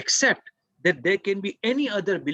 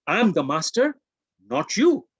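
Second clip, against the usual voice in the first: louder, emphatic declaration of command; firm assertion; 4 dB louder, slower than usual. Acted. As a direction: put the little voice in its place. Telling the little voice off.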